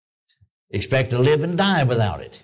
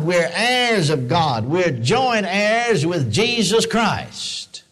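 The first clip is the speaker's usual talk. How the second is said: slow, measured proclamation with swooping pitch; emphatic preaching; slower than usual. Real, not acted. Preacher declaring believers heirs of God, emphatic preaching. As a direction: draw out each declaration like a preacher.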